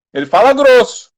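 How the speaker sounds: loud, high-pitched preaching; pregação em alta voz. Acted. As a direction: preach it at full force to the congregation. (pregação enérgica, em voz alta e aguda)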